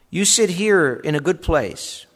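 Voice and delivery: fawning welcome. Acted. Usher greeting rich man warmly.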